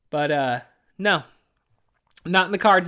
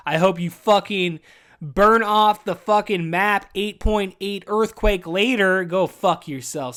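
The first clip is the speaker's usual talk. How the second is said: slow, louder furious curse; angry slow rant; 3 semitones higher, 6 dB louder, slower than usual. Real, not acted. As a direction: spit the curse out slowly. Ranting at Los Angeles.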